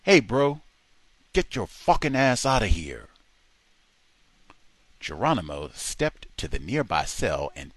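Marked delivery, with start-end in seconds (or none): 0.0-3.1 put-on heavy Spanish accent. A narrator's reading. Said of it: "softened and said in a heavy Spanish accent".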